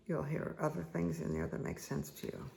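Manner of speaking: ordinary delivery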